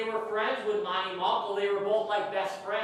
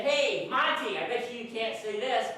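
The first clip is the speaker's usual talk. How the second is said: retold dare; 3 semitones higher than usual. Retold dare back at the bully.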